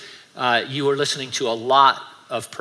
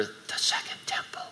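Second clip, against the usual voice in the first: hushed, unvoiced whisper; softly whispered private reminder; 11 dB quieter than usual. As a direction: whisper it like a thought in the mind. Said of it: "just something in your mind whisper".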